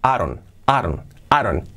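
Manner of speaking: "I don't" squeezed into "a-ron"; D as soft R. Shown as a demonstration. Teacher linking I don't, soft tapped R as in "Aaron". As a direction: tap the D so it sounds like "Aaron". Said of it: "como una R suave".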